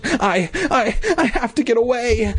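very high, stuttering squeak; squeaky stammer. Acted. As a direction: stammer it in a tiny scared voice. Terrified bee.

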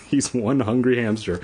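flat laughing repeat. Shown as a demonstration. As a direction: chuckle through the tagline. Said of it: "You're not even trying".

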